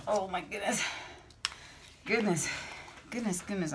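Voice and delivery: winded after running upstairs; puffing between words; out of breath. Real, not acted. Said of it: "I'm out of breath".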